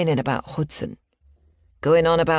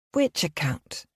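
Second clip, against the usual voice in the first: drawn-out words; 3 dB quieter, slower than usual. Acted. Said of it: "The words are drawn out".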